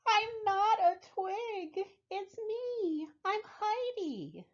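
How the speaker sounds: small stick insect startled into speaking up; surprised yelp. Acted. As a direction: yelp it out, then insist on your name. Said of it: "The twig let out a surprised yelp".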